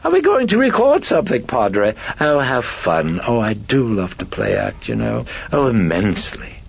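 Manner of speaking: giddy high voice with loud bursts; happy, high-pitched chirp. Acted. Possessing personality delighted at being recorded, happy high gushing. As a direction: gush with theatrical delight. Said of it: "said happily".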